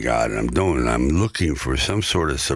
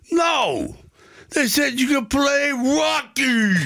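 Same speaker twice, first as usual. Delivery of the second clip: much higher, slow, thrilled cry; excited shout; slower than usual. Retold or imitated. Agent telling the actor he got the part, thrilled high shout. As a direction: shout the news like you can't contain it.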